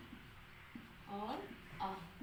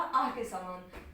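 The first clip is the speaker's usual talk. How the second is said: slow answer; 3 semitones lower, much slower than usual. Shown as a demonstration. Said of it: "इसका उच्चारण किसके रूप में हुआ?".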